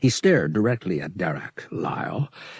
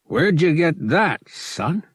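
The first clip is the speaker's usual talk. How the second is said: higher, louder urgent question; pressing dealer; 9 semitones higher, 4 dB louder than usual. Acted. Dealer pressing Han about the spice, raised and urgent. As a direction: lean in and demand it.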